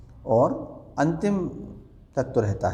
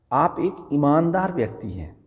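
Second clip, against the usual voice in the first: ईमानदार pushed up and held as the key word; stress on ईमानदार; 4 semitones higher than usual. Shown as a demonstration. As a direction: lean on ईमानदार, rest of the line plain. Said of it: "ईमानदार शब्द है इस पर जोर दिया जा रहा है".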